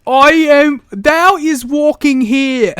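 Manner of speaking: loud, high, slow mock-archaic boom; mystical D&D character. Co-host tops the host's mystic walking line, loud grand mock voice. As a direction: proclaim it like a fantasy mystic. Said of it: "the voice he gave whatever mystical character".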